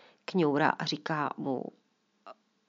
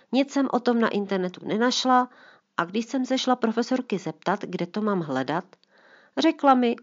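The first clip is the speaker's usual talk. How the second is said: nespokojená puberťačka, hlasitější stížnost; fňukající čtrnáctiletá dcera stěžuje si tátovi; lightly voiced teen; 3 semitones higher, 4 dB louder than usual. Teen daughter complains to father. (dcera si hlasitě stěžuje otci na dvojku)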